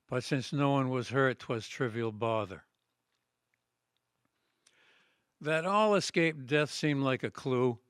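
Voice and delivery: declaimed rhyming ballad, measured line by line; poem recitation. Acted. Poet reads his Revolutionary poem to an audience, declaimed recitation. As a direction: recite a patriotic historical poem in steady metre.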